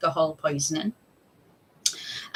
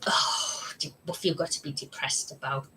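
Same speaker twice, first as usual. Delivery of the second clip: dismissive mum; 3 semitones lower, 6 dB quieter than usual. Retold or imitated. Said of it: "would bat it off".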